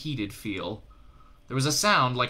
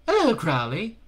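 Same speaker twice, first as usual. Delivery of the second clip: high, loud hellish greeting; a sly demon calling out; demon on the radio; 10 semitones higher, 5 dB louder than usual. A narrator's reading.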